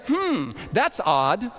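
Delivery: slow, pondering "hmm" of mock bafflement; drawn-out, puzzled musing. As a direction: act out scientists mulling over an oddity. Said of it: "they scratch their heads and say".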